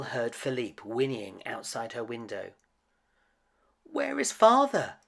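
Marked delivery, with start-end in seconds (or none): 3.8-5.0 higher, louder worried cry; anxious higher cry; worried Belle. A narrator's reading. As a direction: call out in alarm. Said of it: "she said to the horse".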